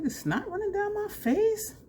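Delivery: high, squeaky pretend-innocent voice; hammed-up squeaky denial; mock denial. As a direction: play it off in a silly high squeak. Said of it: "I'm like".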